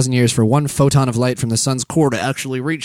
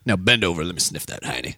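creepy low voice; 8 semitones lower, 7 dB quieter than usual. Acted. Crude joke, creepy low voice.

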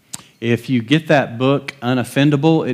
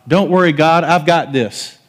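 mock cocky prayer; 5 semitones higher, 4 dB louder than usual. Mock self-reliant prayer.

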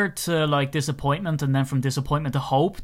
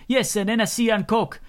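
put-on French accent; 8 semitones higher than usual. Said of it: "strong sort of French accent".

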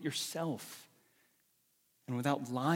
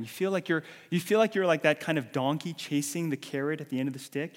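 rising emphasis; 3 semitones higher, 7 dB louder than usual. Acted. Preacher rising on weariness.

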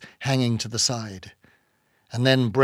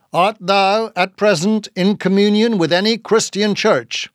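high, loud pious interrogation; hollow, insistent inquisitor's voice; hollow-voiced captain; 7 semitones higher, 5 dB louder than usual. A narrator's reading. Bildad questioning Queequeg about his church, hollow and stern. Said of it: "in his hollow voice".

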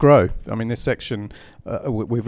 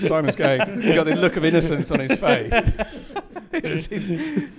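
laughing; 6 semitones higher than usual. Real, not acted. Laughing while teasing colleague.

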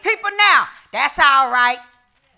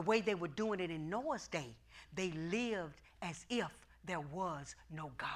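soft unvoiced whisper; 10 semitones lower, 21 dB quieter than usual. Real, not acted. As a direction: hush it to a whisper. Whispered point.

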